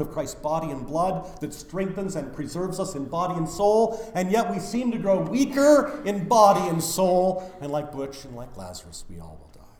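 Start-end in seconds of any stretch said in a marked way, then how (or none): none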